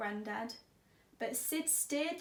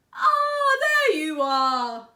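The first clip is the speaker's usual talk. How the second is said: loud, high call across the house; 7 semitones higher, 13 dB louder, much slower than usual. Acted. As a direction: call out warmly to find Sid. Grandad calls Sid, called out.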